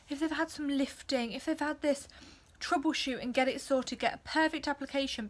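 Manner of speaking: short, shallow breaths between phrases; shallow breathing. Real, not acted. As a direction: talk while short of breath. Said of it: "Sorry about the breathing. I am very heavily pregnant".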